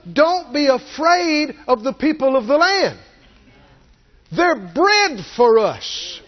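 high, firm command to yourself; self pep talk. Acted. Preacher showing how to talk yourself out of fear, firm. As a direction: tell yourself off, bold. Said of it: "you need to tell yourself".

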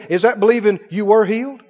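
ordinary delivery

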